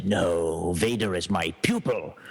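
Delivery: a hint of a gruff Sith emperor. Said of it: "my gruff little, uh, Emperor voice".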